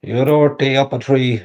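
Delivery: put-on Irish accent. Shown as a demonstration. Showing off accents on request, lightly put-on Irish accent. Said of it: "A Geordie accent and an Irish accent".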